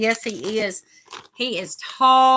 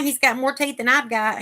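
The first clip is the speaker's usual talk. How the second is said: talking with a mouthful of food; speaking around a mouth full of food; 2 semitones higher, 3 dB louder than usual. Real, not acted. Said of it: "I've got a mouthful at the moment".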